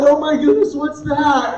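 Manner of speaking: lightly hammed-up dismay; mock alarm. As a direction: gasp it as if the diagnosis is dire. Wife alarmed by the diagnosis.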